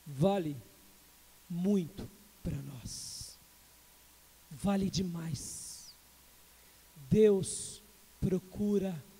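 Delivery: slow each word down like a confession; slow intimate preaching. Acted.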